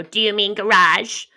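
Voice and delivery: slow, pointed American "garage"; "garage" drawn out in American pronunciation; mocking correction. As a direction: mimic the kids correcting "garage". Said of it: "I just can't be arsed with their mockery".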